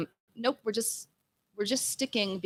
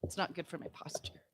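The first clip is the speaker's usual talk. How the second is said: whispering; 13 dB quieter than usual. Real, not acted. Quiet aside into the mic.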